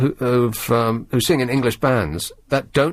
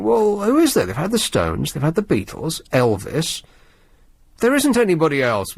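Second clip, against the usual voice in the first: higher, racking your brains; puzzled musing; 5 semitones higher than usual. Retold or imitated. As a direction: count the names off, baffled. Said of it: "we were thinking".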